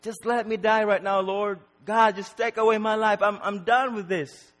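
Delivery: high, anguished plea to God; despairing Job. Acted. Preacher as Job begging to die, despairing cry. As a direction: cry out as if utterly fed up. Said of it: "Job was like this".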